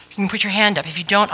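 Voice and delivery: ordinary talk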